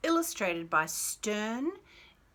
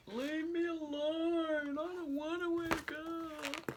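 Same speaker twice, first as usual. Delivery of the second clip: sleepy whiny prince; 9 semitones higher, 4 dB quieter, slower than usual. Acted. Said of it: "He's like".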